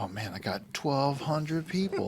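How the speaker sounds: boastful, high showoff voice; bragging guy. Retold or imitated. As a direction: brag like a social media braggart. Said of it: "they're like, you know".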